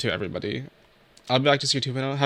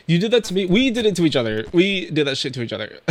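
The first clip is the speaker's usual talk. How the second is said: higher, louder playful accusation; teary mock blame; 5 semitones higher, 4 dB louder than usual. Real, not acted. Streamer teasing chat for making her cry.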